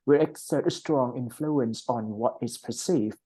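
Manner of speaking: "will exert a strong influence" run together in one flow; linked reading. Shown as a demonstration. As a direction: model connected speech, linking "what is perceived". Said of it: "ก็อ่านรวบๆไป". (อ่าน "what is perceived" รวบต่อกันไป)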